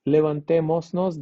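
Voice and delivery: "levantémonos" said with an audible S, as le-van-te-mos-nos; S kept before nos. Shown as a demonstration. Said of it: "that S that should be here".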